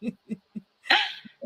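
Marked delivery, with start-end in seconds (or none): 0.0-0.1 breaking into real laughter mid-phrase; laughing along with her host. Real, not acted. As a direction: giggle the words out high and loud. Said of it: "Yes, I'm laughing".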